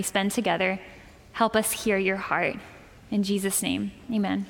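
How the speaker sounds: soft, hushed pastoral prayer. Acted. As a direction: pray quietly over the congregation. Pastor leads congregation in prayer.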